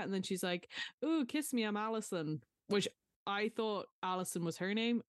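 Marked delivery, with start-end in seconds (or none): 1.0-2.4 teasing mimicry. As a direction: imitate a lovesick crush to tease. Danny mocking Max's pillow talk.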